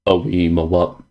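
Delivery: normal talking voice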